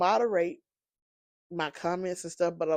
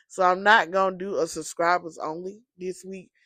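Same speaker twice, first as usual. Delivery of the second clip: usual speaking voice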